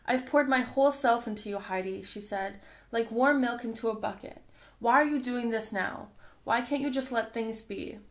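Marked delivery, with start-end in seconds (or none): 0.0-2.0 a touch of controlled anger, a little louder; hurt fury held in check; livid. Acted. Bernie scolds her sister Heidi over the ticket, livid. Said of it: "she was livid". 2.9-8.0 hurt fury held in check; livid. Acted. Bernie scolds her sister Heidi over the ticket, livid. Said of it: "she was livid".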